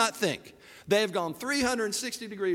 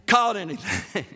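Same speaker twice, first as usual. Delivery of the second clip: calling out; 3 semitones higher, 5 dB louder than usual. Acted. Tourist on the beach to fishermen, calling out. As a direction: call it out like a nosy tourist.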